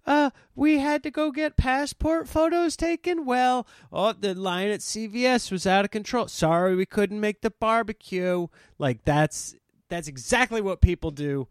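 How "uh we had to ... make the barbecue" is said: high, far put-on voice of a flaky friend; high mocking voice. Mocking flaky friends with a high squeaky voice. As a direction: squeak it out like a whiny excuse-maker. Mock voice of other people.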